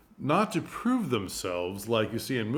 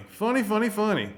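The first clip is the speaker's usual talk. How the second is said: mock jokester; 10 semitones higher, 4 dB louder than usual. Mocking the jokester understudy.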